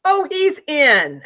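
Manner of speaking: "Oh, he's in" drawled slowly, high and loud; offhand certainty. Retold or imitated. Conductor telling the sister her brother made it, slow and offhand. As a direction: toss it off like it's obvious. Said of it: "The conductor says that to me like that".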